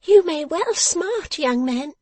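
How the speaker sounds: high, loud, slow piping; exclaiming. A narrator's reading. Dressmaker viewing the thrashed back, high exclamation. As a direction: exclaim it pointedly in a little shrill voice. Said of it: "exclaimed Miss Jenny".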